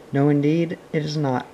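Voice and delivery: "No, indeed, it is not" said with firm weight; emphatic denial. A narrator's reading. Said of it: "with frightful emphasis".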